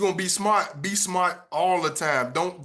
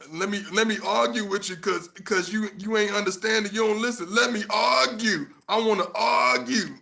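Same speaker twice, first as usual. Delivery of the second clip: mock arguer; 6 semitones higher than usual. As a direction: play the petty arguer for a laugh. Mocking an argumentative partner.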